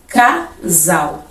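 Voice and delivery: Casal split as ca-sal; sounded out. Shown as a demonstration. Teacher sounding out Casal for students. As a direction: say Casal in two beats. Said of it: "Próxima palavra é casal".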